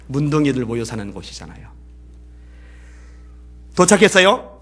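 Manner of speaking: ordinary talk, nothing marked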